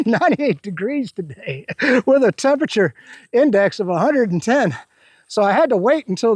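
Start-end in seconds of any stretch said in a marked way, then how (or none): 0.1-2.9 laughing through it. Real, not acted. Laughing at the heat.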